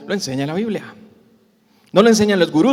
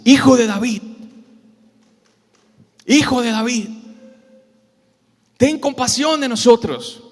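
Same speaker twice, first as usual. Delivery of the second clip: crying out; 5 semitones higher than usual. Acted. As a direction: call out to be heard over a crowd. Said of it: "Y ellos gritaban".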